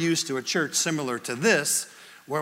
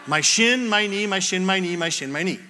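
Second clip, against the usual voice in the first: run-together rehearsal. Retold or imitated. Boy rehearses the coached phrase.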